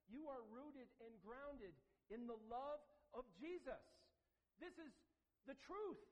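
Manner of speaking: high, slow, ringing proclamation; preaching at full force. Retold or imitated. Paul assuring the church at Ephesus, preached high and building. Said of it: "He's telling them".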